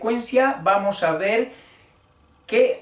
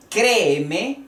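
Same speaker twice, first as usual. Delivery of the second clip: Créeme with a raised, lengthened CRÉ; raised first syllable; 3 semitones higher than usual. Shown as a demonstration. Teacher shows the accented hiatus, raising the voice on CRÉ in Créeme. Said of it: "donde se alza la voz".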